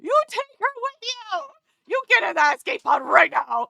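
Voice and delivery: high, pushy command that builds to a shout; mock bossy order. Streamer ordering a game character into the skate pod, mock bossy. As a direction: order her into the pod, playfully stern.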